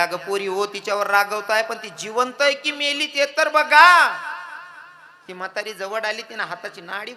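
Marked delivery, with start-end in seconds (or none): 0.0-4.2 put-on an old woman scolding the women. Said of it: "रागवायला लागल्या".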